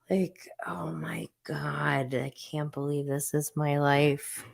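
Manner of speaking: mortified whisper; real whispered groan of disbelief. Real, not acted. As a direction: breathe it out in embarrassment. Hiding on camera, mortified.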